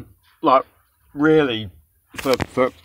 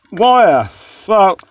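slow, louder, drawn-out why the fuck; exasperated outburst; 4 semitones higher, 4 dB louder, much slower than usual. Real, not acted. Ranting about a bad takeaway, slow exasperated outburst. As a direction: drag it out in disbelief.

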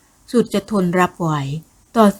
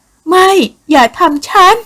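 a frantic, breaking plea; panicked high cry; 10 semitones higher, 8 dB louder, much slower than usual. Acted. Captive woman begging her attacker, high terrified cry. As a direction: cry out high and loud in terror, slowing on the plea. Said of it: "ร้องเสียงหลง".

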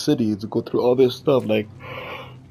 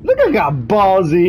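teasing; 6 semitones higher, 4 dB louder, slower than usual. Real, not acted. Taunting game companion.

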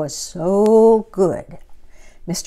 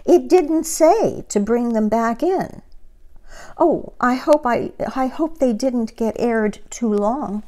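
innocent Amelia; 5 semitones higher than usual. Acted. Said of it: "said Amelia Bedelia".

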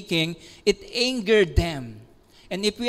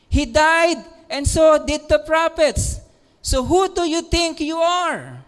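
indignant Jews; 5 semitones higher than usual. Acted. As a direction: hurl the challenge back at Jesus. Jews challenge Jesus, voiced.

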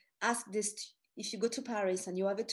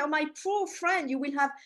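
higher, mock-pitying Russian accent; lightly imitated Russian accent, pitched up; 5 semitones higher, 4 dB louder than usual. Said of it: "She said with a Russian accent".

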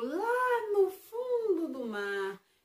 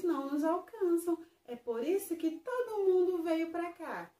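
lightly raised friendly fish voice; Splash's voice; 3 semitones higher than usual. Acted. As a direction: explain kindly in a small fish voice. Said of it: "Splash falou". (voz amigável de peixinho)

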